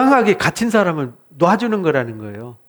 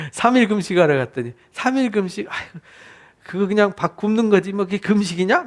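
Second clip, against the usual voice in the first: a hint of a scornful faster; mocking sneer; 2 semitones higher than usual. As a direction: lightly scoff at a short fast. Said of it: "막 이렇게 비웃더라고요". (가볍게 비웃는 말투)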